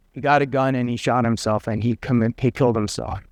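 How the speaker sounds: understated grieving dad; grieving father. Retold or imitated. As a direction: break the news gently through sorrow. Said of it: "he just started weeping".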